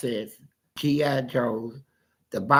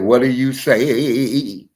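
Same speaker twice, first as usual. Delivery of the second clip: stern dad demand; 7 dB louder, much slower than usual. Retold or imitated. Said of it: "He said".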